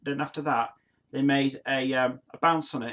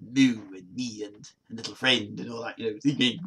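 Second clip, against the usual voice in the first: lower-voiced broad Nottingham Midlands accent; 4 semitones lower than usual. Streamer jokingly shows viewers his Nottingham Midlands accent. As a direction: ham up a Midlands Nottingham twang. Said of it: "like a middle, Middle East accent".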